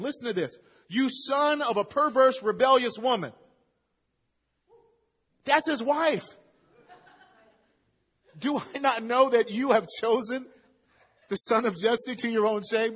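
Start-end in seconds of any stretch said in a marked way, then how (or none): 0.9-3.3 angry rebuke. Retold or imitated. Preacher voicing Saul insulting his son, angry. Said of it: "Saul's anger was kindled". 8.4-13.0 louder, raised accusing question; angry rebuke. Retold or imitated. Preacher voicing Saul raging at Jonathan, angry. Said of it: "Saul's anger was kindled".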